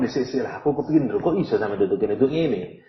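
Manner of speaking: soft, gently curious asking; curious inquiry. Retold or imitated. Angel asking the sinner out of mild curiosity, soft voice. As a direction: ask softly just wanting to know. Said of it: "karena kepingin tahu".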